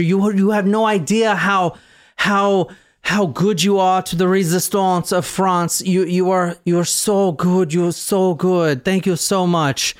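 put-on grateful patient in a French accent that slips toward Swedish; gushing thanks, half French, half Swedish. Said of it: "it almost was Swedish a little bit".

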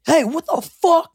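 high-pitched mock outrage; retold angry shout. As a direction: act out an indignant boyfriend yelling. Retold boyfriend rushing out angry.

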